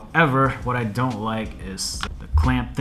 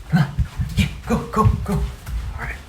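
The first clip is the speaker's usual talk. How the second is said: breathless from running; panting while running from the dog; being chased; 8 semitones higher than usual. Real, not acted. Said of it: "The dog's chasing me".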